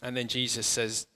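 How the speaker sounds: calm, unhurried scene-painting for closed eyes; walk them gently into the story; guided meditation. Acted. Leads an imaginative guided meditation.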